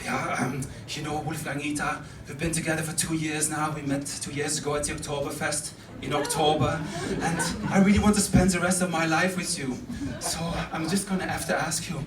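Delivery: soft, hesitant marriage proposal; quiet, earnest build-up; tender proposal. Acted. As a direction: lead gently up to popping the question. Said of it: "to propose, you would go something like".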